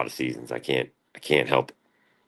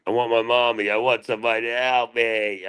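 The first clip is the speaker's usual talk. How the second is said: mock pleading; 6 semitones higher than usual. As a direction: plead like a helpless kid. Reenacts an old whiny bit.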